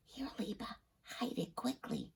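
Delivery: hushed urgent whisper. A narrator's reading. Joey whispering as he hands over the matzah. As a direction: hand it over in a hurried whisper. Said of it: "he whispered".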